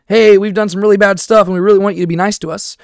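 a hint of a sheepish plea; lightly voiced apology; mock pleading. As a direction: voice a sorry crowd asking for niceness. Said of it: "in the sense of".

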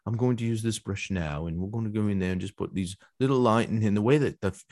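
lightly imitated British accent, calm teacher; mild British accent, soothing like a painting tutorial. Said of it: "He's got a British accent, so he talks like this".

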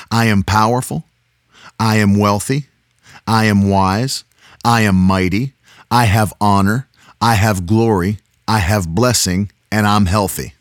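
steady group confession; booming motivational speech. Shown as a demonstration. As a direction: chant it together with children. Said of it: "Say it with me, girls".

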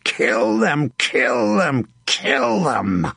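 high, frenzied battle cry; high-pitched repeated war cry; bellow. A narrator's reading. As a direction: bellow it over and over to rally your men. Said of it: "Sir John bellowed".

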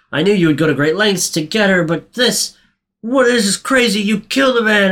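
high, fast, accusing outburst; accusing shopkeeper. Retold or imitated. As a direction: Mushkin confronting Seymour, high and accusing. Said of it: "he's like".

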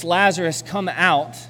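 calling out firmly into the tomb; loud call. Acted. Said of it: "Jesus called out in a loud voice".

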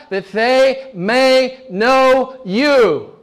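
measured, hammering pulpit delivery; emphatic preaching. Real, not acted. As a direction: proclaim it with sermon force. Preaches on eternal life.

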